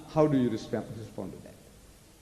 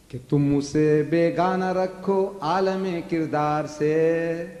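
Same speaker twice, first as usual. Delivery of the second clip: poetic recitation; much slower than usual. Retold or imitated. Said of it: "He said".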